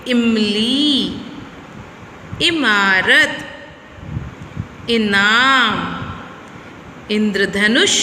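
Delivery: इमली, इमारत, इनाम, इंद्रधनुष with a short light इ. Shown as a demonstration. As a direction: teach the short इ sound, slowly. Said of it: "कैसे?". (हल्की इ की ध्वनि)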